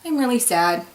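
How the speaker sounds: understated pretend sorrow; mock sad. Shown as a demonstration. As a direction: act out being really sad, lightly. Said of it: "they go something like this".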